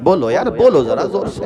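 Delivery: loud, high call to the crowd; preacher urging the crowd to answer loudly; rousing call. Real, not acted. Preacher rouses the audience.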